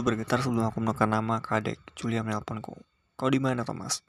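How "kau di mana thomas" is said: anxious. Acted. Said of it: "dengan nada cemas".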